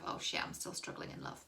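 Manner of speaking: whispered confession; a whispered admission to the viewer; secret whisper. Pretend. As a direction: hush it like a dirty secret.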